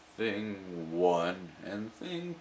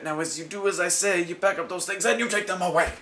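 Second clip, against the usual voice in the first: put-on firm child; 8 semitones higher, 4 dB louder than usual. Child orders cat.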